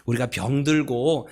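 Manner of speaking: usual speaking voice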